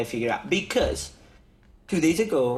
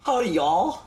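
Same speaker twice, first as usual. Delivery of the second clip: put-on Texan accent; 6 semitones higher than usual. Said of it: "learn how to say howdy".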